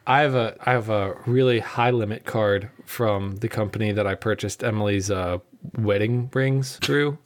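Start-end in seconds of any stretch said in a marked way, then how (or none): 4.1-7.2 alien-like groping for words. Real, not acted. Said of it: "like you were an alien learning what things were".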